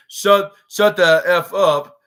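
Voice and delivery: loud, slow, spaced-out heckle; mock crowd jeer. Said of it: "fans start choosing such languages, saying".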